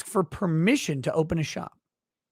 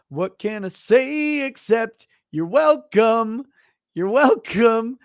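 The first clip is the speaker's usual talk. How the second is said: mock gracious; 3 semitones higher, 4 dB louder, slower than usual. Fake leader grandly accepting thanks from Black viewers. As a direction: savor the smug generosity.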